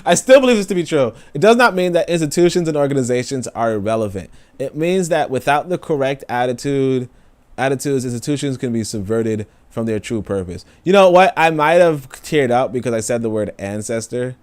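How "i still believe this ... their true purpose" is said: emotional reading. Real, not acted. Reading quote while emotional.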